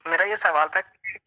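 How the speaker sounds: choppy, broken-up phone audio; bad connection. Real, not acted. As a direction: voice cutting out on a call. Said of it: "آواز کٹ رہی ہے اویش بھائی آپ کی".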